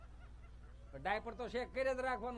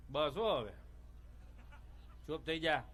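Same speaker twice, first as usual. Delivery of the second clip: much lower, curt hushing; gruff father; 7 semitones lower, 4 dB quieter than usual. Retold or imitated. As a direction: shut the kid up impatiently. Father hushes own crying child. (પોતાના છોકરાને ચૂપ કરાવતો બાપ)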